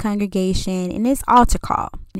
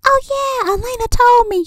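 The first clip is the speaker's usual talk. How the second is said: mom's phone voice; 4 dB louder than usual. Retold or imitated. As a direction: stretch it out like a mom on the phone. Mom on phone with boy.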